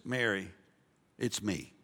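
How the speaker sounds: soft, low and tender; quiet, reassuring voice; gentle reveal. Acted. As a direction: say it softly, as to someone dear. Jesus gently reveals himself to Mary.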